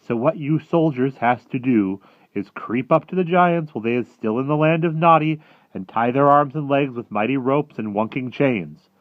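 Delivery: high, loud giant laying out a plan; eager friendly giant. Acted. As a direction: instruct the soldiers loudly as the giant. Voices the BFG.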